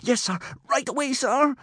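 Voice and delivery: high, strained groan. A narrator's reading. Hiccup obeying Gobber and giving chase, groaning. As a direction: groan out your obedience. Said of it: "groaned Hiccup".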